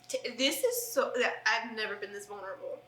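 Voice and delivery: ugly crying through the words; snotty crying. Real, not acted. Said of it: "I am so ugly crying right now".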